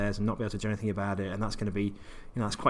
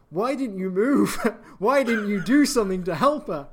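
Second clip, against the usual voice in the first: scolding menu android; 11 semitones higher, 6 dB louder than usual. Retold or imitated. Main menu woman scolds player.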